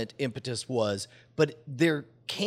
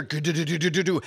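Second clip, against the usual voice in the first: rapid tumbling rattle by mouth; imitated loud clatter; faster than usual. Man imitating the thing coming down the chimney, rapid clatter. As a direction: rattle out something falling down a flue. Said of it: "as loud as it has ever been".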